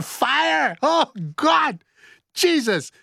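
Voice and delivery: high-pitched, hammed-up alarm; mock panic. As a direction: exclaim as if caught in a fire, playfully. Ad-libbed fire panic.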